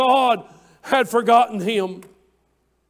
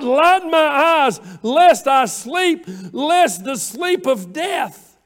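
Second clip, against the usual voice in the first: preached plea; 3 semitones higher, slower than usual. Acted. Preaching the psalm at full force.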